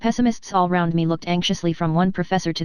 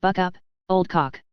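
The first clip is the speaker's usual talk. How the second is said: paralytic slow cheer; slower than usual. Retold or imitated. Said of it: "You should hear me say".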